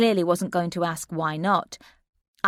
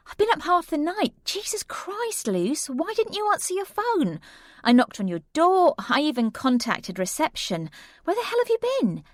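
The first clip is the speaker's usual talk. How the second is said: cross friend scolding; 11 semitones higher than usual. Acted. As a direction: scold her, worried sick turned to anger.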